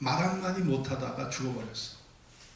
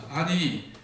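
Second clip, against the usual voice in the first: high, raised-voice outburst; mock outrage, climbing higher; indignant yelling; 5 semitones higher, 3 dB louder than usual. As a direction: act out a sick wife yelling in protest. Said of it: "소리를 칩니다".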